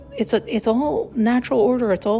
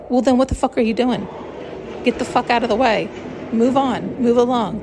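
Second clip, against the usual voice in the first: mock annoyed telling off. Yelling at gawkers.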